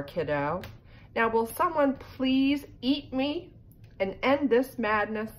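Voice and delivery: put-on an exasperated old ornament pleading with the kid; fed-up candy cane. Candy cane pleads with Duncan to finally eat it, exasperated.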